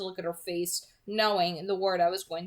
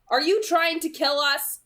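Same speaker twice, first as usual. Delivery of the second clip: higher, loud accusing demand; 9 semitones higher, 9 dB louder than usual. Acted. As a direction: confront her, frightened. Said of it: "I demanded".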